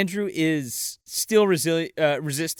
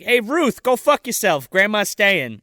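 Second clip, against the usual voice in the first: loud, higher mock telling-off; defiant; 4 semitones higher, 5 dB louder than usual. Parents tell the aunt grandma stays, loud defiant mock retort. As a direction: fling it out forcefully.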